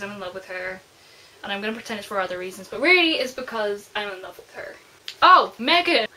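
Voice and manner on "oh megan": sudden loud, high outburst; excited squeal. Real, not acted. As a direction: burst out excited at the name. Excited fangirl reaction to character.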